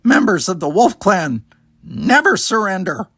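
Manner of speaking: the youngster on the sand, gasping defiance; defiant gasp. Acted. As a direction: force it out though winded. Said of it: "looked up defiantly and gasped".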